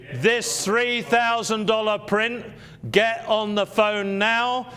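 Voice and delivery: slow, insistent sales push; auctioneer. Acted. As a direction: urge them to call now.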